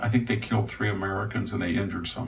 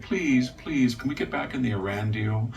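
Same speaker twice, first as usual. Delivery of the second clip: mock begging. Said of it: "he begged and begged".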